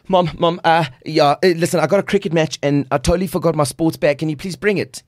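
put-on a kid begging mom to fix it; fast, pleading son calling his mother; pleading teen. Teen phoning mom for help.

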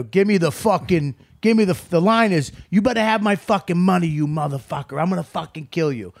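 lightly voiced mob heavy; tough mobster audition. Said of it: "he auditioned like".

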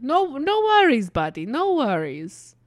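lightly voiced consoling Russian; Russian soldier. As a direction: comfort the kid like a gruff buddy. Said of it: "And it's like".

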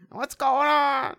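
confused mumble. Retold or imitated. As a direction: play a confused hero, slowly. Imitating confused actor.

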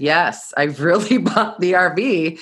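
retold yes, insistent with a laugh; emphatic confirmation. Answering the doubting employer, amused and emphatic.

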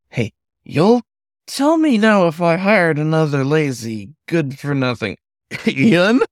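high, loud, whistling scold; kettle whistle voice. A narrator's reading. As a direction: screech at him like a boiling kettle. Manager warning sharply.

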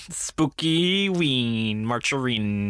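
very slow eerie drawn-out ghost voice; spooky voice. Acted. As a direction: stretch it out like a haunting. Repeats the spooky voice bit.

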